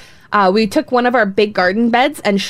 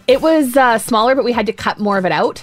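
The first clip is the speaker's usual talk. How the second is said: holding back hiccups; words broken by held hiccups; suppressing hiccups. Real, not acted. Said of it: "Sorry, I have the hiccups this morning".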